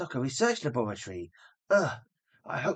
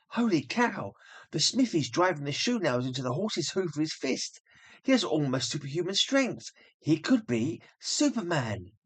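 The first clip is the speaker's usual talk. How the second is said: higher, wide-eyed amazement; awed exclamation; 3 semitones higher than usual. Acted. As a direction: marvel at the strength. Lois awed by blacksmith.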